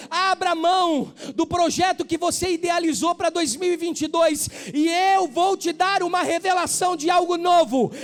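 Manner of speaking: building to a loud proclaiming shout; preaching shout. Acted. Preacher voicing God, rising.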